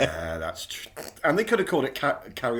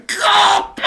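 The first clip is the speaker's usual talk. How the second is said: mock yelp; 9 dB louder than usual. Actor voiced mid scene.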